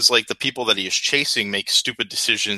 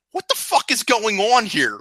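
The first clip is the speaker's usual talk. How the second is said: much higher, baffled what-the-fuck; mock bewilderment; 11 semitones higher than usual. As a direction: play a confused victim spinning around. Mocking the teleport scene.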